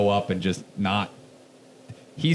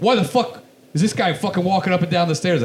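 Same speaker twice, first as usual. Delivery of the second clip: imitating the old door guy yelling about someone on the stairs; angry yell; 8 semitones higher than usual. Door guy yelling at the storyteller, mock angry yell. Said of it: "he starts yelling at me".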